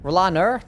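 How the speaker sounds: Rolaner as "ro-LAHN-er", rising in doubt; R-ending, questioning. Retold or imitated. Streamer doubting chat's version, questioning R ending. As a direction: query Rolaner with an audible R at the end. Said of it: "Do I say Rolaner?".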